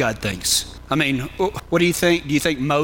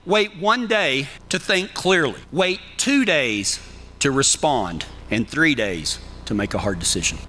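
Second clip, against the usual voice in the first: slow measured saying. Shown as a demonstration. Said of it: "but I always say".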